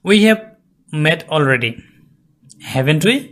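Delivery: "haven't we" lifting up at the end; rising tag question. Shown as a demonstration. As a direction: model a questioning rise on "haven't we". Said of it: "এখানে আমাদের rise করতে হবে".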